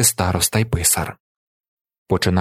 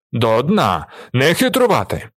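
barked order; 2 semitones higher than usual. A narrator's reading. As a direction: bark it at the cheaters. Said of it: "гаркає Віллі".

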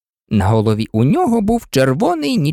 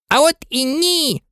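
scornful; 10 semitones higher than usual. A narrator's reading. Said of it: "зневажливо пояснив близняк".

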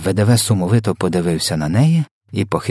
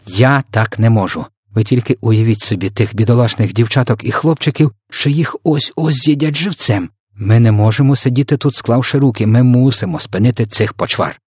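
put-on raised, louder girl's voice pleading urgently; desperate cry; 5 semitones higher, 6 dB louder than usual. A narrator's reading. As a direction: cry out in higher-pitched protest. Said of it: "зірвалася на ноги і закричала".

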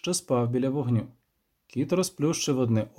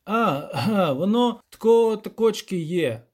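hesitant start after clearing the throat; halting, lightly voiced rustic elder; throat-clearing village elder; 6 semitones higher, 4 dB louder, slower than usual. A narrator's reading. Village elder starting to explain, halting and throat-clearing. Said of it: "і відкашлявся".

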